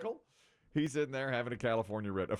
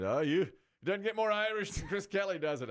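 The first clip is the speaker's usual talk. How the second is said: Irish-heritage client; 6 semitones higher than usual. Retold or imitated. Client gushes over the name Chris Kelly, higher and eager. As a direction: gush about the Irish name. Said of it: "And he said".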